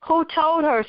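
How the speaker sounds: shocked question. Acted. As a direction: blurt it out in disbelief. Mother shocked by daughter's knowledge.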